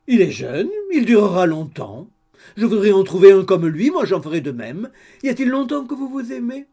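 high, eager gossipy landlady voice; chatty landlady. A narrator's reading. Landlady greeting the couple over coffee, high and eager. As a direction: bustle in all welcome and chatter.

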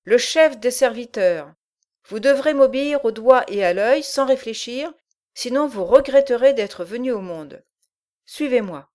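loud gruff giant voice; a menacing brute giving orders. Acted. Bolbec the giant speaks.

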